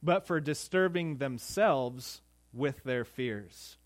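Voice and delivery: "fears" read slowly as a quotation; slow quoted reading. Shown as a demonstration. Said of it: "Matthew Henry writes this".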